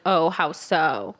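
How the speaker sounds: slow, casual retold question; non-confrontational. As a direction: ask it slowly, keeping her talking. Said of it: "not in a confrontational way".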